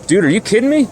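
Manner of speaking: high, exasperated mock teammate voice; annoyed Max. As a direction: voice Max rolling his eyes at a nagging teammate. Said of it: "you can see it all over Max's face, like".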